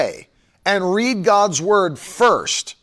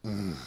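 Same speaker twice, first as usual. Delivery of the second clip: satisfied hum after a sip; sipping coffee hum; 11 semitones lower, 15 dB quieter than usual. Real, not acted. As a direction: mm of enjoyment over coffee. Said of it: "take a sip of coffee".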